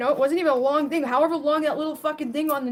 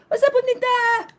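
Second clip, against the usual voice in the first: mock greeting; 12 semitones higher, 5 dB louder than usual. Playful greeting to viewer.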